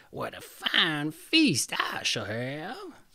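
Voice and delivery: slow greedy witch murmur; gloating witch. Acted. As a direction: relish the thought of the meal. Witch gloats over sleeping children.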